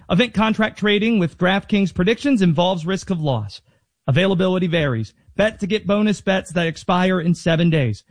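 brisk, even sponsor read with rattled-off disclaimer. Acted. Host reading a DraftKings spot to listeners, ad-read delivery. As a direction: read the betting promo and its fine print.

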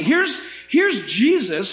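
usual speaking voice

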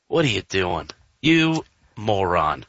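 low, slow deadpan insult; flat let-down groan in words; deadpan disgust. Retold or imitated. Reacting to the broken no-hitter, low slow deadpan. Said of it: "I'm just like".

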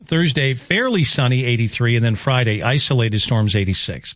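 measured radio forecast, key words drawn out; radio weather report delivery; weather forecast read. Real, not acted. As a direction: read out the forecast, lifting each new day. Reads the forecast.

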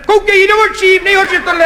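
high-pitched shouted instruction; many-throated yelling. Retold or imitated. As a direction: imitate men yelling advice from behind. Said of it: "se vozíval asi z pěti hrdel". (vysoko položené volání z povzdálí)

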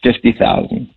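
strained, barely voiced confession; pained admission. Real, not acted. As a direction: force it out as if it hurts to say. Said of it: "I can tell by the change in your voice".

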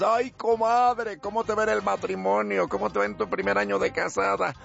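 put-on voices of two women friends; hammed-up comadre chat; gossiping comadres. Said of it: "dos amigas".

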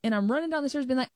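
ordinary talk

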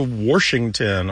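"Washington" said as Worshington; intrusive R. Shown as a demonstration. Host illustrating the dialect, "Washington" with an added R. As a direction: put an R before the sh in "Washington". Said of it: "sometimes you'll hear they go to".

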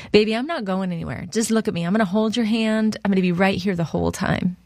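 lightly voiced mom reassuring her child; calming reassurance. Mother comforting her frightened youngest at the roller coaster, reassuring. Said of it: "I'm trying to calm her down".

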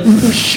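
short imitated whistle; quick mock dog-call whistle; attempted cool whistle. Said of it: "those guys that can whistle".

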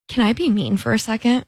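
P=A; leaning-in question. Retold or imitated. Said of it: "someone just leans in and goes".

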